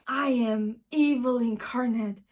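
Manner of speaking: a lightly voiced dastardly villain child; hammed-up child villain boasting; mock menace from a six-year-old. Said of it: "a dastardly voice said".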